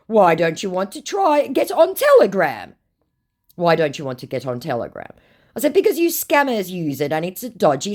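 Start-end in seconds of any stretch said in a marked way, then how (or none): 0.1-2.7 high, pushy put-on voice; mock scammer voice. Woman reading the scammer's Telegram plea, in a high mock voice. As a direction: needle her like the scammer.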